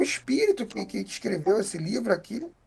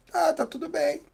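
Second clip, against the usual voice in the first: proud; 7 semitones higher, 4 dB quieter than usual. Retold or imitated.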